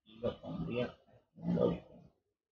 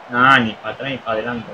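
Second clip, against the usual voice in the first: louder, with "Nah" thrown out hard; louder repeat; 6 dB louder than usual. Real, not acted. Gamer repeating his complaint to a friend, louder and fed up.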